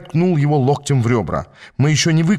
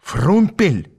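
raised, angry call of a name; angry outburst; 5 semitones higher than usual. A narrator's reading. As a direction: cry the name in indignation. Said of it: "Лицо Иштвана потемнело от гнева". (гневный возглас)

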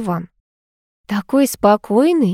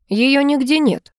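1 angry summing up; 6 semitones higher, slower than usual. A narrator's reading. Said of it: "зло подытожил он".

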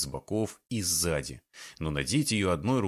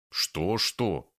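grumbled. A narrator's reading. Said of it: "проворчал Саныч".

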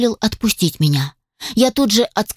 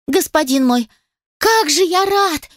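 squeaking; 8 semitones higher than usual. A narrator's reading. Little spider squeaks happily to its master. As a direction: squeak with joy like a tiny spider. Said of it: "пищал паучок".

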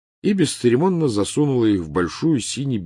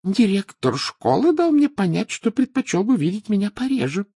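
cold; 5 dB louder than usual. A narrator's reading. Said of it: "холодно сказала она".

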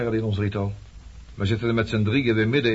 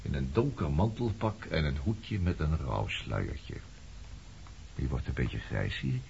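low taunting murmur; 7 semitones lower, 6 dB quieter than usual. Acted. Cold taunting appraisal of her.

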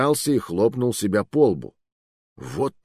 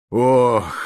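heavy exhale; 3 semitones higher, 6 dB louder than usual. Acted. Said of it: "Громила выдохнул".

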